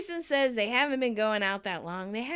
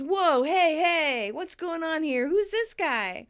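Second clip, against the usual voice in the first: surprised; 4 semitones higher, 4 dB louder, slower than usual. Retold or imitated. Vince bursts in on kissing.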